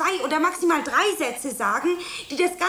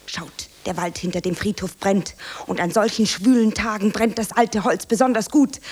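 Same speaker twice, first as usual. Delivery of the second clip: dramatic monologue; 5 semitones lower, 4 dB louder than usual. Acted. Monologue continues.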